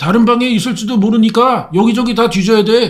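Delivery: put-on high, urgent young voice.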